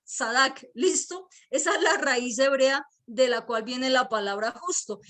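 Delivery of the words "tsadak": "Sadak" with ts at the start and a crisp k at the end; careful pronunciation. Shown as a demonstration. Pastor spelling out the Hebrew word for the congregation. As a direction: land the final k in "Sadak", rising. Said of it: "y al final va con K".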